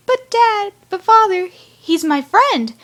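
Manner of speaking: pleading son. Retold or imitated. Six pleading with his father.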